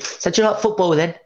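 Beckham-style Essex voice; Essex accent. Retold or imitated. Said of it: "He had the David Beckham voice".

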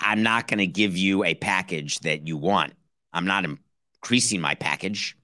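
a hint of a calm, apologetic Riley on the phone; mock Riley, low and unhurried; Pat Riley. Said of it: "This is Pat Riley on the phone".

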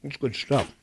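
chewing pineapple while talking; mouth full. Real, not acted. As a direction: talk through a mouthful. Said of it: "Sorry, I'm eating a pineapple".

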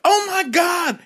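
high squealing shout; vagina's shocked scream; shrieked oh my God. Retold or imitated. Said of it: "your vagina was just like".

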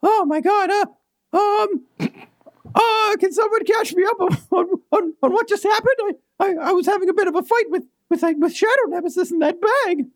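lightly voiced talking doll, flustered; Doll Adam's voice. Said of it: "so I gotta go back to Doll Adam's voice".

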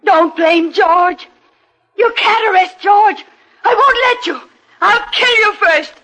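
Amy threatening the detective with a knife; wild threat. Acted. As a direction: lose control, protect George.

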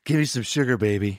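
feed the actor his line, confidently; director's line reading. Retold or imitated. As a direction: director lightly acting out the hero's line. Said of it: "you're gonna say to her".

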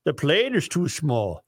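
hammed-up Norwegian accent; worst Norwegian voice. Host reading a listener's moose joke, worst Norwegian accent. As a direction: tell it in a bad Norwegian voice. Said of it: "use your worst Norwegian voice".

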